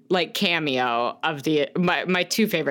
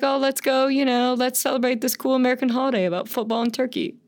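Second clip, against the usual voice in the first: mock breezy enthusiasm; 5 semitones higher, faster than usual. Acting out actor hyping a holiday.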